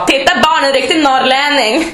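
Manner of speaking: high-pitched imitation of a marvelling coworker; amused colleague. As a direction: show the children a curiosity, mockingly imitated. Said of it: "Och då skrattade hon och sa".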